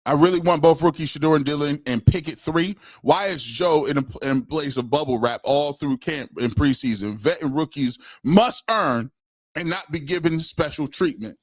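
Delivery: super chat read. Acted. Reads a super chat aloud.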